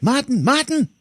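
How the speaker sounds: very high strained calls; hammed-up anguished yell; mock frantic calling. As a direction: call out to a dying friend. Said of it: "Vernon's like".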